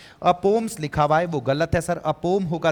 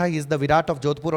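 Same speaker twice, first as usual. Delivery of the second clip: slow dictation; much slower than usual. Shown as a demonstration. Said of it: "मोटा मोटा आप लोगों को ये बताना था".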